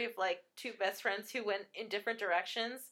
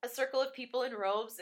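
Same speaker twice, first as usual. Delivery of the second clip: ordinary talk, nothing marked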